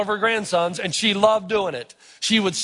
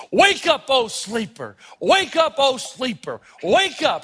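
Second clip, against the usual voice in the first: call-and-repeat preaching; slower than usual. Retold or imitated. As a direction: chant it like an old preacher calling the sleepers. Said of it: "the African-American tradition of repetition".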